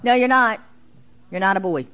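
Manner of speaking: put-on loud, insistent child's no; bossy little girl. Teacher voicing a bossy girl, loud and insistent. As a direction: plant your feet and overrule him like a bossy little girl. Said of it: "Real strong, aggressive little girl".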